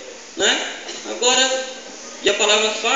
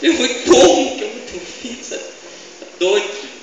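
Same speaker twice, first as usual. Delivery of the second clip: mock-incredulous laughing Sara, raised voice then wheezy; imitating laughing disbelief. Sara behind the tent hears she will have a child, mock laughing disbelief. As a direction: act out Sara scoffing through a laugh. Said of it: "Ela começou a rir".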